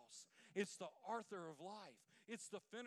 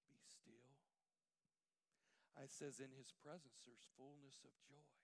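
hushed, intimate sermon voice; soft preaching; 5 semitones lower, 9 dB quieter than usual. Acted. Pastor softening to comfort the congregation, hushed. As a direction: draw them close, softly.

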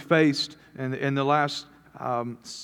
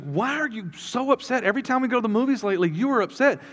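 higher-pitched imitation of a puzzled wife; lightly acted spousal complaint; exasperated wife; 8 semitones higher than usual. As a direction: voice the wife's questioning, pitched up. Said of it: "And she's like".

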